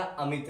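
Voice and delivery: अमित said easily with a brief i; short i. Shown as a demonstration. Teacher models the short matra for learners, short easy i. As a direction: keep the i in अमित short and unforced. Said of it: "आराम से बोलेंगे".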